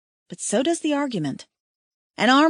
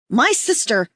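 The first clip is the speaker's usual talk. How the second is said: loud plea; 2 semitones higher, 4 dB louder than usual. A narrator's reading. Woman yelling.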